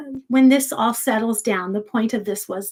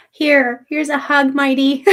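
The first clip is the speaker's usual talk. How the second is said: fond hug offer; 4 semitones higher, 6 dB louder than usual. Real, not acted. Sending a hug to a chatter.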